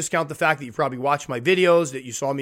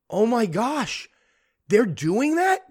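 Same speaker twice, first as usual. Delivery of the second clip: mock shock; 7 semitones higher, much slower than usual. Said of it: "listening to my podcast going".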